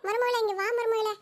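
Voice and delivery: high, drawn-out call across the house; slow, high calling voice. Acted. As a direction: sing out for the daughter-in-law from another room. Mother-in-law calls daughter-in-law.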